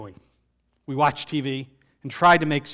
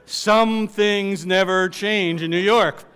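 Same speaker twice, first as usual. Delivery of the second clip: slow, louder, laughing through the words; 4 semitones higher, 7 dB louder, much slower than usual. Real, not acted. Teller laughing about New York to the audience. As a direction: chuckle it out fondly.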